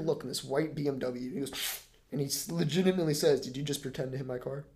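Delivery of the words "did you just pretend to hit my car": lower, softer weary question; weary and understated; tired deadpan. Retold or imitated. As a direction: imitate a worn-out driver asking quietly. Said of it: "he was so tired".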